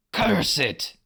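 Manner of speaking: whispered snarl; a stuck villain's whispered curse. A narrator's reading. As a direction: hiss it under your breath. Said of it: "the captain snarled".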